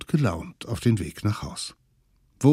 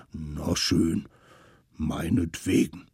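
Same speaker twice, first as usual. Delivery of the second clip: softer, lower reluctant creature; grudging mammoth; 4 semitones lower, 3 dB quieter than usual. Acted. Mammoth agrees.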